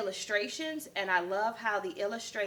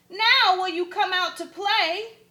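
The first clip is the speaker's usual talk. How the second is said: higher loud inviting question; 10 semitones higher, 7 dB louder than usual. Acted. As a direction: ask him out to play. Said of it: "When Dingo asked".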